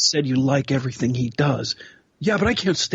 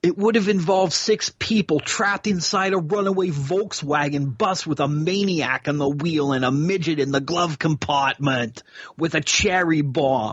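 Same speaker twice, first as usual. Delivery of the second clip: heavily laid-on put-on Southern accent. Continuing a story while another speaker remarks on the voice, Southern Christopher Walken voice. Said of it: "like a Southern Christopher Walken".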